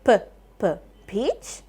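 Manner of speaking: p, p, then peach; phonics sounding out. Shown as a demonstration. Teacher checks peach for the r sound, sounding out. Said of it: "does this have the r sound".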